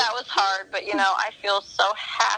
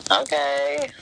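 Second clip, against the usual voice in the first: surprised; 11 semitones higher, much slower than usual. Retold or imitated. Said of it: "And I'm like".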